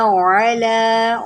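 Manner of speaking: अला with a strong throat ain; throaty ain. Shown as a demonstration. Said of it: "आइन निकाले".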